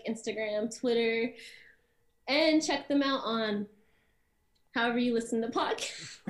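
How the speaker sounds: serious, steady plug; sincere promo read. Acted. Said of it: "Okay, serious note".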